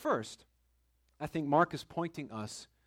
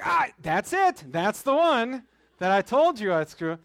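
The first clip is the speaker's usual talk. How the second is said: high, loud retold yelp of pain, slowing at the end; hammed-up cry of pain at the dentist; mock pained yell; 6 semitones higher, 10 dB louder than usual. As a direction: yelp as if the dentist hit the bad tooth. Dentist tapping the sore tooth.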